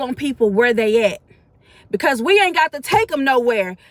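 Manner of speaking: rising sermon voice, lightly building; preaching. Real, not acted. Mother exhorting listeners not to judge people, mild preaching. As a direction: preach it to the congregation with conviction.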